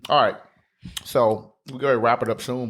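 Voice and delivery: talking around ice cubes; ice in mouth. Real, not acted. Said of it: "oh, I got ice in my mouth".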